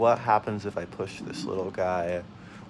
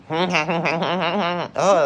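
laughing; 6 semitones higher, 5 dB louder than usual. Real, not acted. Laughs at own noise.

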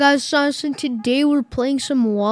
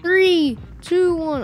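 excited countdown; 7 semitones higher, 4 dB louder, slower than usual. Real, not acted. Countdown before jumping.

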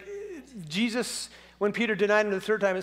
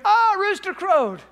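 high, slow groaning realization; dismayed Peter; 10 semitones higher, 7 dB louder, slower than usual. Pretend. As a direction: realize it with a sinking ah. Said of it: "Peter goes".

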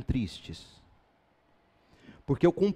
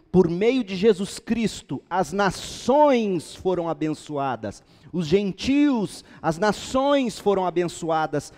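raised, stretched preaching voice on key words; emphatic preaching; 5 semitones higher, 5 dB louder than usual. Acted. Preacher proclaiming Galatians to the church, emphatic preaching. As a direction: proclaim the verse with rising force. Preaches the scripture at full force.

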